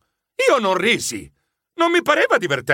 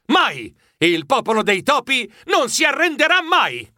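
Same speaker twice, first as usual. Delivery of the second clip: higher-pitched defiant declaration; mildly raised, rousing vow; proud cry; 5 semitones higher than usual. Acted. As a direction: proclaim it with fierce pride. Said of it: "Io gridai fieramente".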